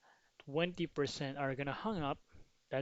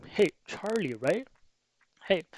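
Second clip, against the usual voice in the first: higher, casual phone greeting; friendly caller; 4 semitones higher, 9 dB louder than usual. Shown as a demonstration. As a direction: greet them like an old friend. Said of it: "you could ask their first name".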